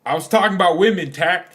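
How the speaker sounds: loud, fast, laughing through the words; laughing protest. Real, not acted. Streamer laughing as he corrects his friend's quote. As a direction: crack up while setting the record straight.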